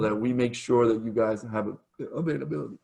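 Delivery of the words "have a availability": tired, hoarse voice fading out; losing your voice after a long day of talking. Real, not acted. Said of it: "I'm losing my voice here".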